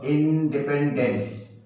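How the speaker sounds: slow, careful model word; slowly again. Shown as a demonstration. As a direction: stretch it for the class. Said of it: "फिर बोलो". (धीरे-धीरे, साफ़-साफ़)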